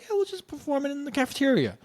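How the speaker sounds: high-pitched, quick self-quote; breezy quoted suggestion. Retold or imitated. Teacher breezily proposing a cafeteria show, high and quick. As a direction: toss it out high and fast.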